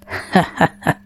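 a quiet breath of a laugh; amused dragon chuckle; soft breathy chuckle. A narrator's reading. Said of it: "The dragon chuckled".

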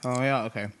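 talking with a mouthful; chewing popcorn while talking; munching popcorn. Real, not acted. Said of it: "Sorry, I'm eating popcorn".

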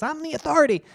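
mock the self-important expert; mocking the professor. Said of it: "and now he says".

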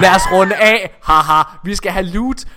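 announcing a teammate's message; reading chat aloud. Retold or imitated. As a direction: read the chat line out with a hammed-up lilt. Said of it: "Nikolaj har også lige skrevet".

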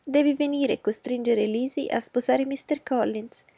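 high, loud, frantic cry to her husband; bursting into the library in a panic; shouting. Acted. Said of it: "gridò". (grida alla moglie del marito, acuta e forte)

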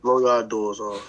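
drawn-out teasing chant, low; slow mock taunt. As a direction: stretch the taunt out slowly to needle him. Teasing catchphrase at rival.

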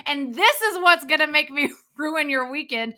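real heated tirade; worked-up, accusing rant; angry. Real, not acted. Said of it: "I am so angry right now".

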